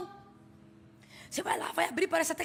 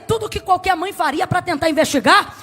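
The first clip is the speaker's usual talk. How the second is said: impassioned preaching; 6 dB louder than usual. Acted. Preaching at full force.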